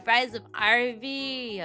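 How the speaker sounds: normal talking voice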